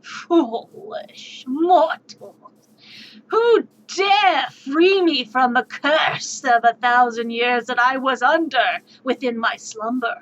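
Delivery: dragon voice. Acted. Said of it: "starts laughing".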